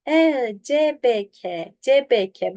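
"C B K" as Turkish ce-be-ke; wrong Turkish-style reading. Shown as a demonstration. Teacher reads wrong on purpose, Turkish-sounding "C B K". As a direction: read "C B K" with plain Turkish vowels. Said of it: "Yanlış oku hocam".

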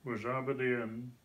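Doric recited in broad Scots. Shown as a demonstration. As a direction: recite the verse in thick Doric. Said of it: "Doric Scots".

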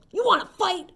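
high, loud challenge; grouchy shout. Acted. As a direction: call out like a cocky bully. Grouchy ladybug picks fights.

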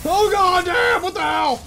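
high, loud panicked yell; panicked shouting. Real, not acted. Dragon attacking.

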